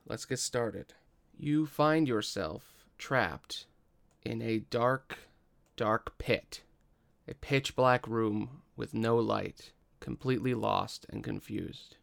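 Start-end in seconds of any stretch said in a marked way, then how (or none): 1.4-12.0 slow narration with suspenseful pauses; game master's scene setting. Acted. Game master places player in a dark pit, slow suspenseful narration. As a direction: set the scene slowly, phrase by phrase.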